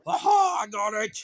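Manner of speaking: high excited repeats. Real, not acted. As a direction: cheer it out. Excited play with dog.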